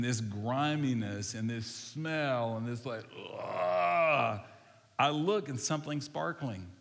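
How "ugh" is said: long, loud "ugh" of revulsion; loud, drawn-out yuck noise; disgusted groan. Acted. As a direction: draw out a big grossed-out groan. Reacting to grime and smell.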